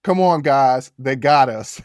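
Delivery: mild mock yell. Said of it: "yells out".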